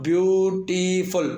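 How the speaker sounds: ब्यूटीफुल drawn out as ब्यू-टी-फुल; three separate syllables in ब्यूटीफुल. Shown as a demonstration. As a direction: split ब्यूटीफुल into three held beats. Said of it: "तीन syllable हैं".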